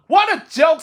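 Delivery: high, mocking little bird voices; a robin heckling from the bush, high and mocking; jeering robins. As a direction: jeer at Toad like a cheeky robin. Robins mock again.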